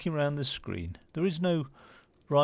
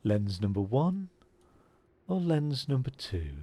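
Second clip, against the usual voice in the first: imitating a calm, professional optician, softer and unhurried; 5 dB quieter than usual. To a child in the chair, imitating the calm optician softly. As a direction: mimic the optician's measured, quiet lens question. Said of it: "he would literally speak like that".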